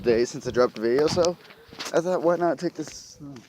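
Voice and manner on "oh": ordinary talk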